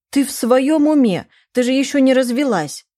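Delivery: mother can't believe what she hears; shocked. Acted. Mother shocked by wedding news.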